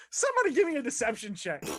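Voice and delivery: amused, laughing demand; breaking up while giving an order. Real, not acted. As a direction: call for it through laughter. Game master laughs at players' lie.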